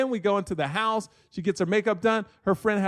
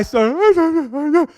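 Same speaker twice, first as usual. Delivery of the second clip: drawn-out, higher, louder fake bawl; mock ugly crying; 8 semitones higher, 6 dB louder than usual. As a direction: imitate your own ugly cry, stretched out. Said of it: "ugly crying".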